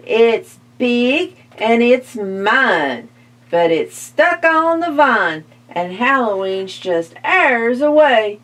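lightly voiced witch, slowed; a hint of a scheming witch. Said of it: "said the witch".

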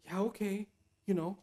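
soft, resigned giving in; a touch of mock surrender. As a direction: let yourself be talked round, quietly. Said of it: "you start saying to yourself".

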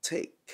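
"Thick" said like Vietnamese "thích"; "Thick" with an aspirated T; easier substitute. Shown as a demonstration. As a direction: swap the TH of "Thick" for a puffed T. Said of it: "thì các bạn hãy nói là".

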